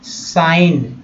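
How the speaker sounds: साइन said as "sine", no g; one drawn-out word साइन, g left silent; silent-G pronunciation. Shown as a demonstration. Teacher answers own spelling question, silent-G साइन. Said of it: "S I G N क्या होता है".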